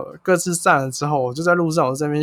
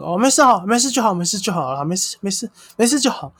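high, quick 没事就好 repeats; rapid peacemaker; 5 semitones higher than usual. Retold or imitated. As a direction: rattle it off fast to smooth things over. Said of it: "很快速的".

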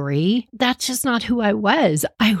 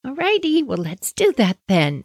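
hesitant mom; 6 semitones higher than usual. Retold or imitated. Mom voiced, unsure about octopus.

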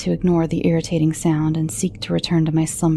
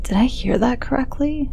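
whispered disbelief; 6 semitones higher than usual. Acted.

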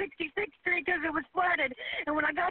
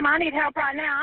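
desperate plea; 3 semitones lower, 8 dB louder than usual. Real, not acted. Caller trapped in flood.

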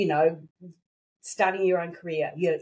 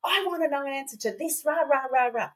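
retold angry demand; 4 semitones higher than usual. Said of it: "I'm getting angry".

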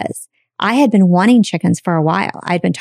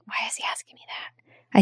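breathy inner whisper; whispered thought; 13 dB quieter than usual. Real, not acted. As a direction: whisper it to yourself.

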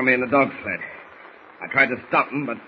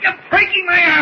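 high pained cry, much louder; arm twisted back; 6 dB louder than usual. Acted. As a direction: yelp in pain as the arm bends. Arm twisted behind his back.

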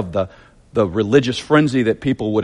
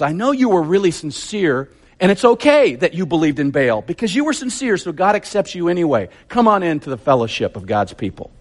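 mock gentle; 4 semitones higher than usual. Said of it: "You think that's what he said?".

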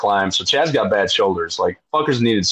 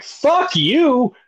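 much higher defiant retort. Retold or imitated. Rower to the ship crew, high defiant retort. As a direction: snap back at the crew. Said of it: "I'm like".

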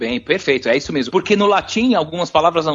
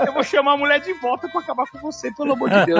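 high-pitched, comic exasperation; exasperated outburst; 7 semitones higher than usual. Retold or imitated. Customer blowing up at the cashier he defended, exasperated. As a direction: retell it as a mock fed-up rant.

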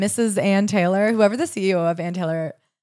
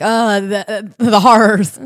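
louder, hammed-up tragic lament; mock melodrama; 6 dB louder, much slower than usual. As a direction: clutch your pearls over it. Mock pity for model's plight.

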